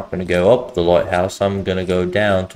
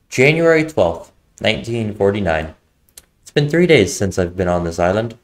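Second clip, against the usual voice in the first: brisk read-aloud of a diary entry; journal reading; 3 semitones higher than usual. Acted. Player reads the found journal aloud, brisk narration.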